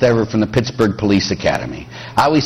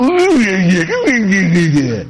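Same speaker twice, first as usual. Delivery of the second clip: mock groan; 4 semitones higher, slower than usual. Mocking exasperation at annoying people.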